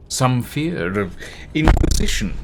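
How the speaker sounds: sudden loud burst on "inquisition"; too loud. Real, not acted. Narrator overdoing a line about inquisition, too loud. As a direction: overshoot the volume on "inquisition". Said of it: "Ouchie. Sorry, everybody".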